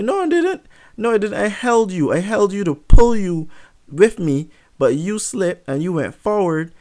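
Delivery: high-pitched, insistent excuse; acted defensive denial. Dad denying he threw his son, high and defensive. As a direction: protest innocence, voice jumping up high.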